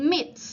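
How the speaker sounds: "mits" with a hissed S at the end; final S demo. Shown as a demonstration. Teacher showing the end sound of "mits", final S pronounced. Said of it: "เป็นเสียง".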